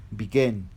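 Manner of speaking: "begin" stressed on its final syllable; stress on second syllable. Shown as a demonstration. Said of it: "lleva mayor fuerza de voz en la segunda sílaba".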